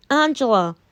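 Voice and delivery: imitating a stern, scolding friend. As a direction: lay it down like a stern mum catching you out late. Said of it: "took a stern voice to me".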